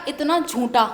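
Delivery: reading out a furious message with a laugh; angry message. Retold or imitated. Woman retells her angry text to the groom, half-laughing. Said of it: "रेज है, गुस्से में है भाई".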